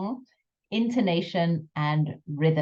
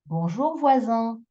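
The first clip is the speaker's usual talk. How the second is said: higher bonjour voisin, SIN held long; accent on final syllable; 5 semitones higher than usual. Shown as a demonstration. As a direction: stretch the end of voisin. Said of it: "intonation on that last bit".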